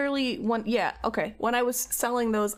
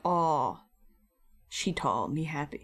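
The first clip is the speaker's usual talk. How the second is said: mocking fan voice; 8 semitones lower than usual. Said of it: "they're like".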